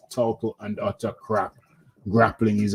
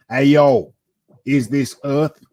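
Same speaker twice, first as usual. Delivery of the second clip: alien voice; 4 semitones higher, 5 dB louder, slower than usual. Pretend. Alien joke opener.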